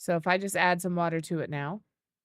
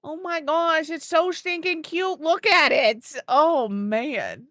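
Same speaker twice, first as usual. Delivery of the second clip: high, loud squeal of delight; excited cute-overload gushing; gushing excitement; 9 semitones higher, 7 dB louder, slower than usual. Real, not acted. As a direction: squeal over something adorable. Gushing over cute item.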